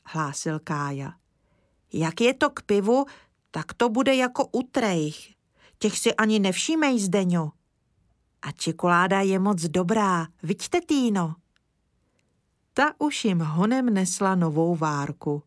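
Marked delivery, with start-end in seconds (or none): 1.9-11.4 put-on little boy. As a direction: speak up like an earnest small boy. Kája speaks.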